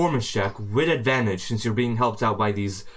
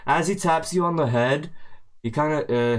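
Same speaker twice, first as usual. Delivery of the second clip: usual speaking voice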